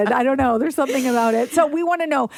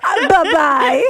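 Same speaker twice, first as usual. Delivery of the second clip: drawn-out, higher sing-out goodbye; phone-voice bye-bye; 5 semitones higher, 6 dB louder, much slower than usual. Retold or imitated. Host mimicking the caller's phone persona, exaggerated and drawn out. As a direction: stretch it high and loud, mock phone voice. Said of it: "You never say 'bye-bye'".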